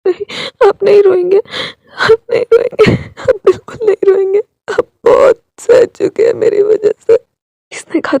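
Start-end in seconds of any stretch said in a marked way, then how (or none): 0.0-1.4 crying plea. Acted. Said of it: "वो रोने लगा था". 1.4-2.9 slow crying plea. Acted. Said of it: "वो रोने लगा था". 2.9-7.2 tearful. Acted. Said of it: "वो रोने लगा था".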